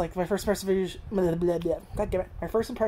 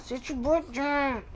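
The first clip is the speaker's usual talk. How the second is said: talking to the dog; 6 semitones higher than usual. Real, not acted. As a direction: tease Barney like a fussing pet owner. Owner scolds the dog playfully.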